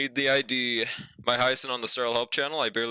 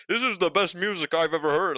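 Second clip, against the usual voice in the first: mock fake hype; 3 semitones higher than usual. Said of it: "everyone on Twitter was pretending".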